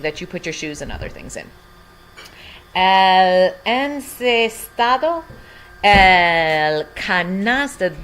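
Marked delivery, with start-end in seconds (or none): 2.7-5.2 El encestado drawn out, en-ces-TA-do; teacher modeling El encestado; slow model word. Shown as a demonstration. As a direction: say El encestado slowly for learners.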